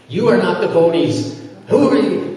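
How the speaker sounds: a retold angry challenge, pitched high; mock the man's indignant shout, lightly; angry accusation. Man in the temple accuses Maharaj of talking during japa, indignant retold challenge.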